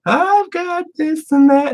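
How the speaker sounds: very high, slow, hollow parody voice; mock a smug drone who thinks he does everything right; high mocking voice of a self-satisfied nobody; mindless zombie. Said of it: "Just a fucking mindless zombie going".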